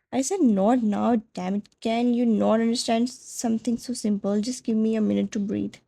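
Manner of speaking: a man at the end of his rope, lashing out; frustrated sharp outburst. Acted. Boyfriend pulling away from his partner, a loud frustrated snap. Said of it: "his voice loud, sharp, full of unfiltered frustration".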